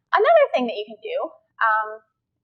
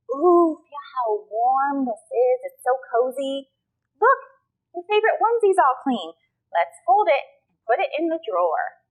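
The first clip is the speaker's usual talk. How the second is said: put-on parent talking to baby; 2 semitones higher than usual. Shown as a demonstration. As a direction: savour the warmth for a baby. Parent voicing laundry talk to baby.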